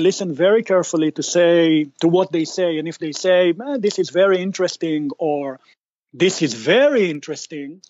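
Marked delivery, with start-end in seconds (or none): 3.6-5.1 quick, offhand "Ah, this is very interesting" with a falling "Ah"; dismissive interesting. Shown as a demonstration. Investor politely brushing off a pitch, offhand. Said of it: "you can see how the tone is really the thing". 6.1-7.8 "This is very interesting" with a rise on "very"; genuinely interested. Shown as a demonstration. Investor genuinely interested in the pitch, rising on "very". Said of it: "you can see how the tone is really the thing".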